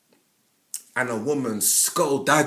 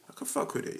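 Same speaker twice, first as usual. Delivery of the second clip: whisper; 11 semitones higher, 8 dB quieter, faster than usual. Pretend. Whispered self-admiration.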